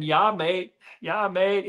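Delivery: a light Australian twang on "Yeah, mate"; Aussie accent. Pretend. Still trying his Aussie accent for the Australian host, a light Aussie twang. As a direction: toss in an Aussie catchphrase. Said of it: "give me your best Aussie accent".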